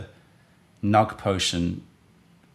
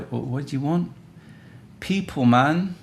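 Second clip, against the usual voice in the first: exasperated; 6 semitones higher than usual. Real, not acted. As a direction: throw up your hands at the chat. Exasperated at chat.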